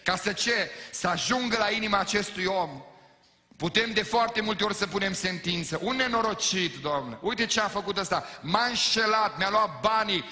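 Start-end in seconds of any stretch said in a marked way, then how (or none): 0.0-2.8 loud, high, fervent preaching; full-force preaching. Acted. Pastor pleading with the congregation, loud fervent preaching. 5.8-10.2 loud, high mock grievance to God; hammed-up indignant complaint; complaining believer. Believer griping to God about a cheat, loud mock indignation. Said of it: "Și mai spunem și alte vorbe".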